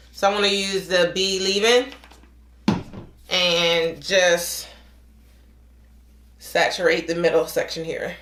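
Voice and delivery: talking through a tightening face mask; drying face mask. Real, not acted. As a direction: speak with a stiff, tight face. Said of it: "try to talk as best as I can".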